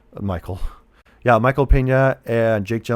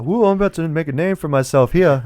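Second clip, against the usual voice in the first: imitating an excited Deadpool; 6 semitones higher than usual. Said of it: "the Deadpools was like".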